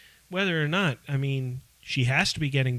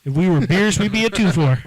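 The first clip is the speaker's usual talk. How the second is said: loud joking; 4 semitones higher, 8 dB louder than usual. Acted. Joking beer pun.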